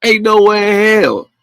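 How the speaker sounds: high, slow "ain't no way in hell"; incredulous and slow; flat refusal to believe. Real, not acted. Emphatic disbelief.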